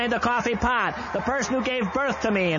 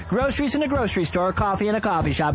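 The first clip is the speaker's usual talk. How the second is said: call and response. Shown as a demonstration. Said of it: "Say it with me".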